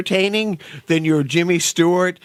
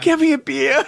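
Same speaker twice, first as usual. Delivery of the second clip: mock gruff demand; 9 semitones higher than usual. Mocking a character.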